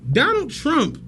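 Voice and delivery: nervous laugh. Real, not acted. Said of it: "That's a nervous laugh".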